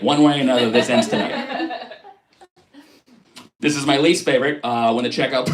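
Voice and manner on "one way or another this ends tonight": dramatic vow. Pretend. Dramatic movie line.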